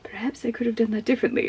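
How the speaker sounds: soft, musing imitation; hushed, wistful second thoughts, lightly acted; Obi-Wan. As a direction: ponder it quietly, as if privately reconsidering. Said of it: "hints of him being like".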